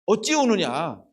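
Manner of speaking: slow, stretched "어찌 우느냐" as a gentle husband; tender husband voice. Retold or imitated. A husband gently consoling his weeping wife, slow and tender. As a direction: draw out the comfort like a loving husband. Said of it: "남편이 뭐라고 이야기합니까".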